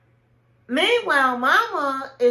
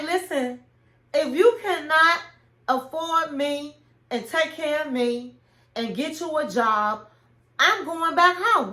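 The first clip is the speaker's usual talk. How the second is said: firm ultimatum; 4 semitones higher than usual. Pretend. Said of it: "put my foot down".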